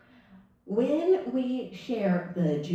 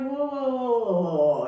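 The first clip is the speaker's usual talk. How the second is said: high run of whoas, sliding down; retold startled stop-right-there; mock alarm; 4 semitones higher, 4 dB louder than usual. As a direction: call a comic halt. Acting out halting a rumor.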